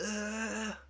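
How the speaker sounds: high, strained mock groan of pain; a hammed-up high ugh of pain; keeper's pained groan. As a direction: imitate the keeper's wince. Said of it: "The keeper is like".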